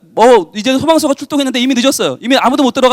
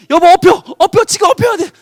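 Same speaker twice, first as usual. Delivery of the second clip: higher, louder hurried urging; urgent command; 8 semitones higher, 3 dB louder than usual. Acted. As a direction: get her onto your back now. Husband urging wife onto back.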